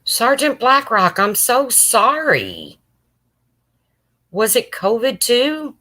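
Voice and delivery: sorrow pouring out for a viewer's loss; tearful condolence. Real, not acted. Streamer offering condolences to viewer Sergeant Blackrock, high and tearful.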